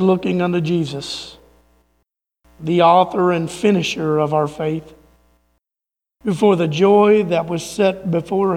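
measured, reverent reading with pauses; scripture recitation. Acted.

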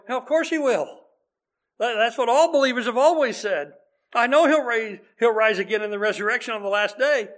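exasperated retort. Retold or imitated. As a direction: brush him off, we already know that.

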